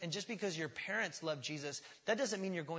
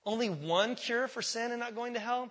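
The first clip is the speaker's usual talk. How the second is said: raised, loud mock-incredulous question; mock objection; 7 semitones higher, 7 dB louder than usual. Preacher mimicking someone objecting to one salvation, scornful disbelief. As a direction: play the complainer, pitched up and loud.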